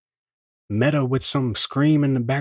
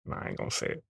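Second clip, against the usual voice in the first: whispering the refusal; whispered inner voice; 13 dB quieter, much faster than usual. Acted. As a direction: breathe it, barely voiced.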